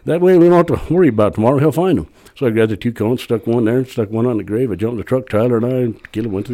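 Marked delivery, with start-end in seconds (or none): 0.1-2.1 high, eager quoted coworker; retold bright agreement, pitched up; upbeat approval. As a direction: imitate a coworker jumping at the idea. Coworker welcomes the idea, retold.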